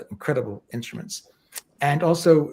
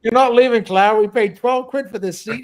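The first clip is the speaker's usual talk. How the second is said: mock stern insistence; 7 semitones higher, 8 dB louder than usual. Voicing friend scolding at cinema.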